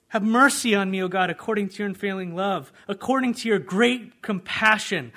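loud, high pleading prayer; David's plea. Acted. King David crying out to God after Nathan, loud pleading.

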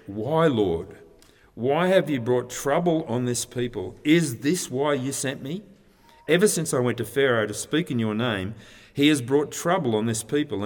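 mildly upset, questioning plea. Acted. Moses complains to the Lord about his people's trouble, mildly upset. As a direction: put a touch of protest into it. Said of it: "he's pretty upset".

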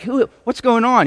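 high, loud startled cry of confusion; startled disciples. Retold or imitated. Frightened disciples crying out at Jesus appearing, high and loud. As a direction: blurt it out like you've just seen a ghost.

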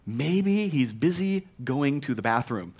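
slow, laughing jibe; barely holding back a laugh; mocking through laughter. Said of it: "He's mocking their God".

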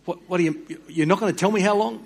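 taken aback, demanding an answer; a touch of indignant disbelief; indignant prophet. Retold or imitated. Prophet protesting to God.

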